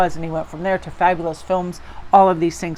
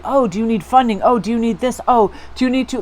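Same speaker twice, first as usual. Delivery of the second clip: higher, bouncy mock offers of help; eager offers; 4 semitones higher than usual. Imagined supporters offer funding and backup, eagerly. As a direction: play eager backers, lifting each offer.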